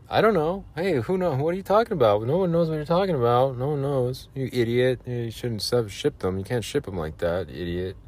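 high, whiny voice mocking a clueless customer; mock rude buyer. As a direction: put on a high nagging voice, sneering.

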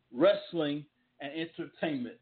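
slow, "wrestling" and "entertainment" each given weight; emphasis on both words. Shown as a demonstration. Host driving home the two key words, slow and weighty. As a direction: land on "wrestling", then on "entertainment". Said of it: "Emphasis on those two words".

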